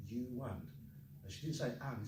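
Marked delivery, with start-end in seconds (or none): 0.1-0.7 YOU AND joined as you-wund; linking W. Shown as a demonstration. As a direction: glide from You into and through a w. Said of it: "there's a W between".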